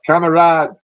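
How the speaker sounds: loud, high cry of surrender; yelled surrender. Acted. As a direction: shout it with hands up. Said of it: "they yelled".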